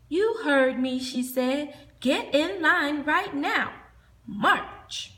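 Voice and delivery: loud, firm order; stern teacher. Acted. Teacher scolding the monsters into line, stern. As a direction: make them obey.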